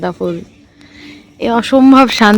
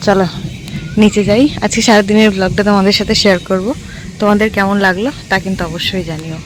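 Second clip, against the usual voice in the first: talking with a toothbrush in mouth; while brushing teeth; 2 semitones lower than usual. Real, not acted. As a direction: speak around the toothbrush. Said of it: "আমি brush নিয়ে এসেছি, brush করতে করতে".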